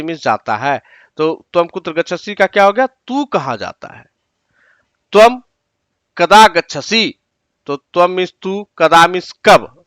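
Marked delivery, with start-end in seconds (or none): 5.1-7.2 slow and deliberate, each word set apart; slow dictation. Shown as a demonstration. Teacher reading a Sanskrit sentence to students, slowly. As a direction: read it out slowly for students to copy.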